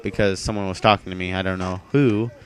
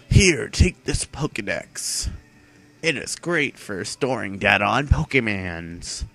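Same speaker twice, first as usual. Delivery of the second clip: put-on old man voice. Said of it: "I'm talking like an old man".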